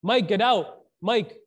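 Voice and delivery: loud mock holler; retold screaming. Stranger outside your home calling Mike, mock holler. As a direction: imitate someone yelling a name at a house. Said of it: "starts screaming".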